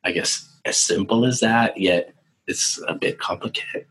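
hoarse, fading voice; losing his voice, raspy and breathy; raspy whisper. Real, not acted. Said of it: "Sorry, I'm losing my voice".

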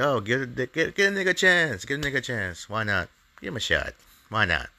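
high, loud, eager "give him a chance"; excited inner voice. Retold or imitated. Retold thought, voting for the mayor.

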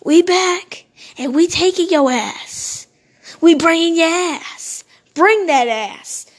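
drawn-out, punchy taunt in an acted quote; lightly acted swaggering taunt; taunting returnees. Retelling how they pulled up on the boat, mock taunting. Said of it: "they were like".

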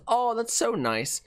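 high, drawn-out lady's coo; gushing dog owner. Acted. Lady watching mailman pet her dog, gushing.

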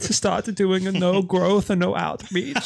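hammed-up villain, giggling through it; Bond villain. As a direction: gloat like a cartoon supervillain. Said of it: "playing a Bond villain".

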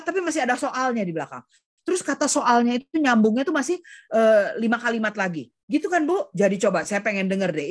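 nonstop talker. Retold or imitated. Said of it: "nggak bisa berhenti ngomong".

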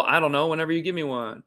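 normal talking voice

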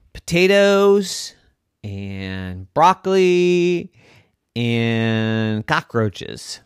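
high, loud drawled zebra. A narrator's reading. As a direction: complain slowly about dinner being interrupted. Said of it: "the magical zebra said".

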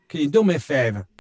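imitated Boston fireman asking; Boston accent. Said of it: "I was in Boston".

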